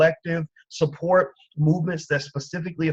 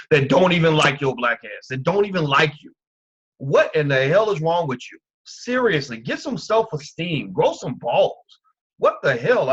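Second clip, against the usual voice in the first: louder, exasperated ranting at his audience; heated rant; 5 dB louder than usual. Real, not acted. Host scolding his viewers for being used, angry and loud. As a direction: berate them, fed up and disgusted.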